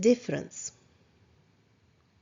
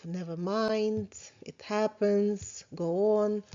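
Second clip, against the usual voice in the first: calm soothing self-talk; slower than usual. Shown as a demonstration. Coach shows kind self-talk after a mistake, slow and soothing. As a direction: gently let yourself off the hook. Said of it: "in a calm and soothing voice".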